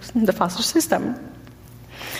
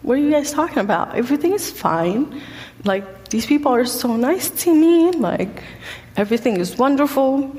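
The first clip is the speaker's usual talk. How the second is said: higher, quick, brightly insisting all is fine; insistent reassurance; 4 semitones higher than usual. Retold or imitated. Teen insisting to the cops, a mildly hyped-up protest. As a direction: protest a bit too cheerfully that everything's great.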